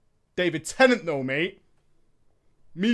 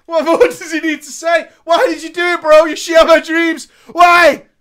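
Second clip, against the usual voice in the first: loud, higher mock fury, shouting; mock outrage; 6 semitones higher, 9 dB louder than usual. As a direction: rant at him like he betrayed you. Ranting at the betraying paladin.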